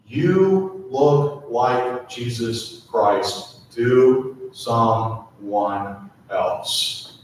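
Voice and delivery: gentle slow blessing over the room; slow tender affirmation. Real, not acted. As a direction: linger on each word as a loving reassurance. Pastor affirming congregation, slowing down.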